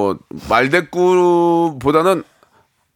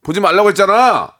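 louder, higher dad's reprimand; exasperated scolding; 4 semitones higher, 4 dB louder than usual. Acted. Dad catches child peeking at smartphone, exasperated scolding. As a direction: scold like a dad who already warned. 아빠가 아이를 꾸짖는 상황극.

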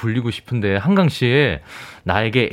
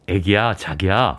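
tender low call; 7 semitones lower, 4 dB quieter than usual. Pretend. Calling pet names tenderly.

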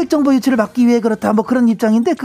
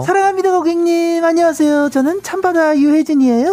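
call center greeting; 5 semitones higher than usual. Pretend. Reporter greets like call center agent.

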